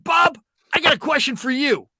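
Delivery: high, loud eager voice; eager caller. Retold or imitated. Caller pushing in to ask the host. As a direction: pipe up with a question. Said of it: "And he's like".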